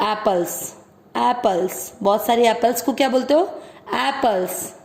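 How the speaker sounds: एप्पल्स with a clear final s; plural s sound. Shown as a demonstration. Teacher using English plurals to show the s. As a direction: say एप्पल्स ending in s. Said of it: "वो आप कैसे बोलते हो?".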